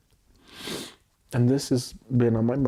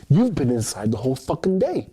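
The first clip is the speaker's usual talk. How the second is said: mock scolding; 4 semitones higher, 5 dB louder than usual. Voicing granny's scolding.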